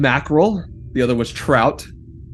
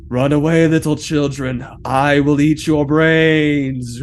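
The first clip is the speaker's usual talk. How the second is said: spooky monster; slower than usual. Acted. GM voices spooky monster threat.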